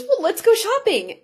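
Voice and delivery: imitating a mom's eager announcement; upbeat suggestion. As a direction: pitch it up and rally them. Mom proposes shopping after making up.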